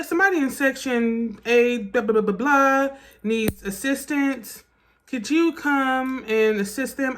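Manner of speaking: mock-calm radio call, slowing down; too-calm usher. Usher radioing for assistance for a seizure, mock-calm and unhurried. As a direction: imitate an unhurried usher on a walkie-talkie. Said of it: "he was talking so calm".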